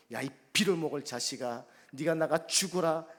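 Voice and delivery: a mother hurling curses, acted; retold cursing. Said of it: "오만 욕을 다 했습니다". (아들에게 욕하는 엄마 흉내, 큰 소리로)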